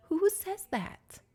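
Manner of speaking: high-pitched, drawn-out incredulous question; appalled disbelief. Acted. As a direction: squeal it slowly in disbelief. Appalled at guest's remark.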